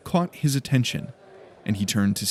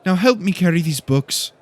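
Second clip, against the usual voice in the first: bossy demand; 8 semitones higher, 5 dB louder than usual. A narrator's reading.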